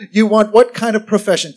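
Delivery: lightly imitated Korean-accented English; hint of a Korean preacher's accent; David Yonggi Cho. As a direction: ask in a mild mock Korean accent. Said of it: "I love his accent and the way he talks".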